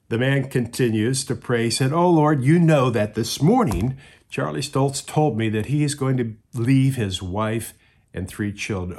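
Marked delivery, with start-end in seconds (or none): 1.9-9.0 higher, louder pleading prayer that settles back; urgent praying man. Acted. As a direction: beg the Lord, then ease off. Second prayer, urgent plea.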